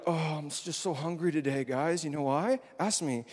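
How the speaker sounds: mock complaint about being hungry; hammed-up "poor me"; showy complaining. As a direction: lightly act out someone angling to be asked. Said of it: "don't be like".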